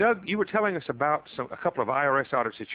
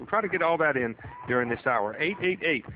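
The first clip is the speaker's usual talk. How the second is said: radio host; 4 semitones higher than usual. Acted. Host reads show promo.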